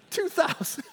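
high-pitched mock boast. Preacher ridicules demons boasting to Jesus, high mocking voice. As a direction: squeak out the number in ridicule.

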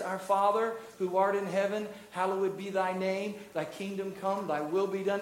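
understated, even recital of the Lord's Prayer; reverent prayer. Shown as a demonstration. Pastor showing the heart we go to the Father with, reverent prayer. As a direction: pray it humbly in an unbroken, measured flow. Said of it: "Anybody hear the attitude of it?".

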